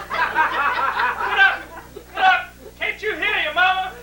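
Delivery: high-pitched, insistent scolding; bossy dad. Retold or imitated. Dad orders Bill up to fix Mama's fan, scolding. Dad rousts son out of bed.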